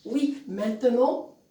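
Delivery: drawn-out words for writing down; slow dictation. Shown as a demonstration. Teacher dictates the monologue's first words, slow dictation. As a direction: dictate it slowly, word by word. Dictating the line being written.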